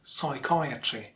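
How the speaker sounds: psychiatry slowly, leaning on CHI; stronger second syllable. Shown as a demonstration. Teacher shows how to make it stronger, stressing CHI in psychiatry. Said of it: "make it stronger and louder".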